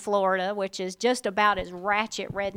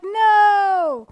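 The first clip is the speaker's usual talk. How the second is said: high, loud, mock shocked cry of no; mock horrified no; 10 semitones higher, 7 dB louder than usual. Reacting to hearing Southern accents, hammed-up loud no. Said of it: "I'm like".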